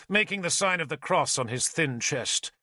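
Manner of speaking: ordinary delivery, nothing marked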